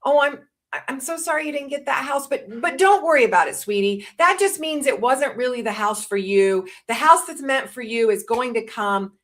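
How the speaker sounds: a mother hurrying to comfort her daughter over the lost house; quick comfort to daughter. Shown as a demonstration. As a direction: rush in to fix her sadness, sweetly. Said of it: "would have sounded something like this".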